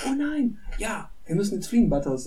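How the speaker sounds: mock panic. Cartman fakes panic.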